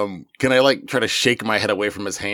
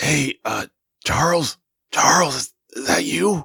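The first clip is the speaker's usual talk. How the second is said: very soft whisper, much higher pitch; 5 semitones higher than usual. A tabletop player, as a character with no inside voice, whispering as softly as possible. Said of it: "try to whisper as softly as he can".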